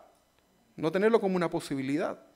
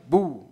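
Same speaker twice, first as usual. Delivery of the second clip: playful "¡bu!", a bit louder; mock scare; 5 dB louder than usual. Shown as a demonstration. Preacher mocks the idea of a spooky Satan with a louder boo. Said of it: "Satanás no viene para asustarte".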